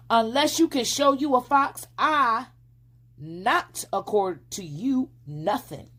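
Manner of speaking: high, loud defiant; sassy girl. A narrator's reading. Flossie with hand on hip defying the fox, loud. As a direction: plant your feet and sass him.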